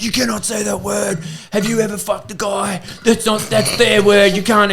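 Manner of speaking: high-pitched, drawn-out indignant rant; mock outrage. Angry woman confronting comedian over his joke, mock outrage. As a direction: imitate someone losing it, voice shooting up. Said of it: "she fucking lost it".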